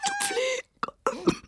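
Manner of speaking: slow, high, theatrical verse; grand stage declamation. Acted. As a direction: declaim it like a tragedian. Declaiming verse, rising pathos.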